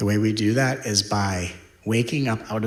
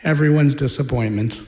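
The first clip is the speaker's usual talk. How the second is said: needy self-introduction; 4 semitones higher, 5 dB louder than usual. Retold or imitated. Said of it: "vibrationally it might be".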